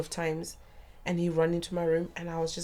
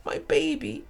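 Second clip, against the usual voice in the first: put-on broken, breathy whisper of my baby; lower, hushed despairing cry; 10 semitones lower, slower than usual. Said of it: "I'm crying".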